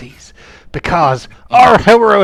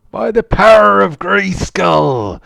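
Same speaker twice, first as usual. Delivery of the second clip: heroic proclamation; 5 semitones higher, 5 dB louder, slower than usual. Acted. By the power of Grayskull.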